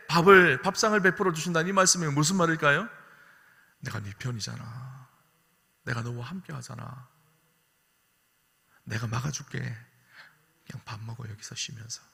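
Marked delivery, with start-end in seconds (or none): 3.8-12.0 soft, slow, tender comfort; tender reassurance. Acted. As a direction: ease them down gently, almost hushed. God reassuring the weary.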